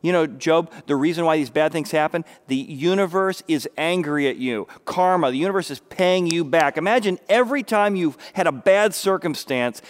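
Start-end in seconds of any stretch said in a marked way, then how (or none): 0.0-6.8 accusing friend. Retold or imitated. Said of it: "His friends begin to say".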